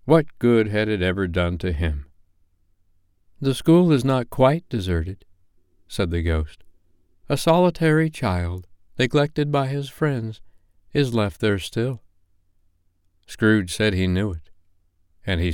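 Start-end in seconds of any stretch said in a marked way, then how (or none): 3.4-5.2 higher, solemn ghostly warning; ghost of Christmas past. Acted. Ghost speaks. 7.3-12.0 higher, solemn ghostly warning; ghost of Christmas past. Acted. Ghost speaks of lonely child.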